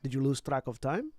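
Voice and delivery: put-on light Macedonian accent. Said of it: "allowing my Macedonian accent to slip back in".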